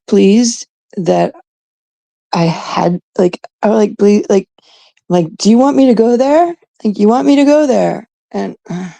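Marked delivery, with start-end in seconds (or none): 5.4-8.1 higher-pitched, daring question; mock challenge. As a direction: pose it as a taunting dare. Acted challenge to her rival.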